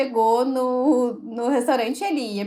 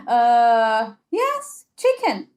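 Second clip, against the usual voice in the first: eager clueless customer, pitched way up; 3 semitones lower, much slower than usual. Retold or imitated. Customer answers, voice jumps high.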